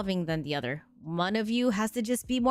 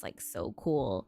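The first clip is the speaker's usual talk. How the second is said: put-on e-girl voice; 11 semitones lower, 5 dB quieter, much slower than usual. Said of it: "talks like this".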